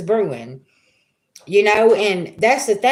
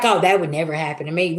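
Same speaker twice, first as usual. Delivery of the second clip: mocking smug people; 6 semitones lower, faster than usual. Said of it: "they're like".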